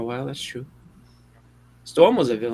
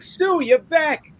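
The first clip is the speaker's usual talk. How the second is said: much higher, drawn-out fake sweetness; mock sweet Reed; 14 semitones higher, much slower than usual. Reed greets returning Sue in a slow, high, fake-sweet voice. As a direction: stretch it out slowly like a sheepish husband. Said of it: "he's like".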